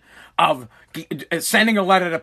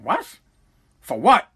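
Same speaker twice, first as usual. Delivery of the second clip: sharply rising, retold incredulous question; mock indignant disbelief; slower than usual. Son retelling father challenged at Walmart, mock indignant. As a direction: imitate an affronted father, briefly. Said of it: "he was pissed".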